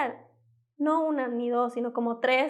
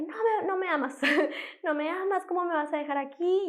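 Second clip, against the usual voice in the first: higher-pitched, mock tearful protest with a little laugh; retold crying; 5 semitones higher than usual. Teen pleading with her mother at the clinic, mild mock crying. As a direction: plead like a hurt teenager, half-crying. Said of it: "me puse a llorar".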